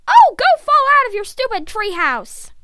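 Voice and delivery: loud, high, angry retort; shouting back. A narrator's reading. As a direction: yell it back up at him. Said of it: "Drath shouted back".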